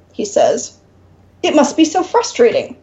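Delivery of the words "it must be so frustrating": warmly. Acted. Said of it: "the demon says warmly".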